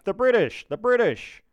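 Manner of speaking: high, loud repeated shout; yelled alarm. A narrator's reading. Jetton running back to the camp, yelling. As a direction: yell it twice to wake everyone. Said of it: "He runs back to the camp yelling".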